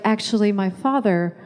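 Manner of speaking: a touch low, slow and soft, carefully spelled out; lightly acted interpreter, measured and deliberate; mock translator. Kid translating for dad to the waitress, mock careful interpreting. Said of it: "You tell me, I'll tell the waitress".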